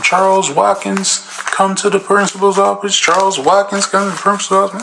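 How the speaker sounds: page him over the speaker; intercom call. Retold or imitated. Intercom announcement.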